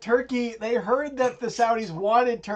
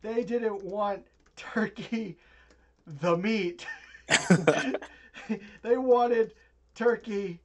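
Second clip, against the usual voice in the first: quiet scolding; 5 dB quieter than usual. Acted. Senior quietly scolding his son Philip. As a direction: hiss it down at him.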